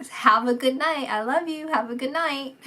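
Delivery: playfully chuckling "Have a good night" as a send-off; laughing farewell. Retold or imitated. Medium passing on the spirit's laughing goodnight to viewers. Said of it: "He was, like, laughing".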